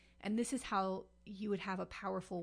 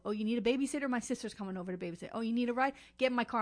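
eager canvasser; 3 semitones higher, 4 dB louder, faster than usual. Retold or imitated. Committee man courting voters.

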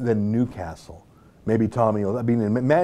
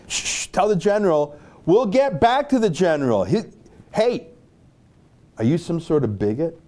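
a higher, hammed-up officer excusing the stop; lightly mocking commander voice, growing shriller at "hey"; 4 semitones higher than usual. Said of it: "some commander was on the phone".

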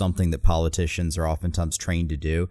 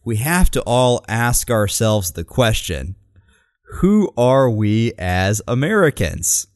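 slow, louder rally cadence on We have to all ask ourselves; a hint of a stump speech delivery; rally speech quote; 3 semitones higher, 4 dB louder, slower than usual. Quoting the candidate to show her rhetoric, slow and grand. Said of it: "what I found most fascinating".

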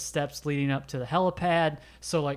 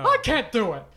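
mock helpless; 9 semitones higher, 4 dB louder than usual. Can't say no to her.

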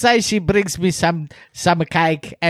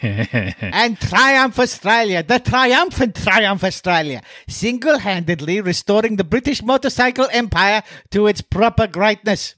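grandiose ad read. Acted. Grand sponsor praise.

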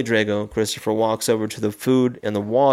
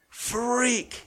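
mock yell; 12 semitones higher, 3 dB quieter than usual. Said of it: "he yells".

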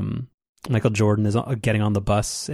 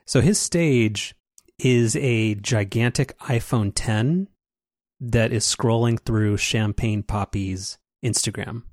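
slow dramatic reveal; slower than usual. Real, not acted.

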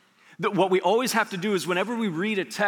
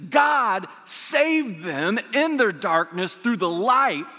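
slow, drawn-out preacher's cry; preaching emphasis; 2 semitones higher, much slower than usual. Acted. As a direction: lean into every word like a proclamation. Preacher climaxing on salvation.

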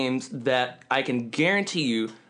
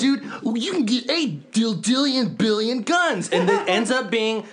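worked-up rant; ranting with rising pitch; mock outrage; 4 semitones higher than usual. Real, not acted. Ranting about Borderlands.

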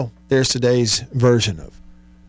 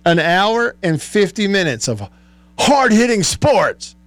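put-on baby voice; 5 semitones higher than usual. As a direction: stretch it out like a toddler. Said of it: "it encouraged me to do it too".

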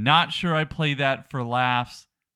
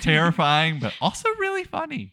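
mocking echo; 3 semitones higher than usual. Echoing co-host's line mockingly.

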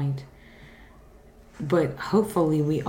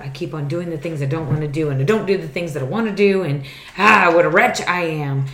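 faster, rising, building louder into "wretch"; anguished Paul quote; 7 dB louder, faster than usual. Retold or imitated. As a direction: pour out Paul's despair, quickening. Quoting Paul's anguished confession.

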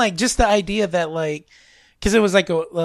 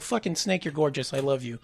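quiet adoration; 5 semitones lower, 7 dB quieter than usual. Retold or imitated. Adoring words to a doll.

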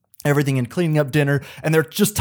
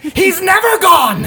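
slow, high, loud, cackling; hammed-up unhinged doctor; manic laughing; 7 dB louder, much slower than usual. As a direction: draw it out like a madman. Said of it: "he's like".

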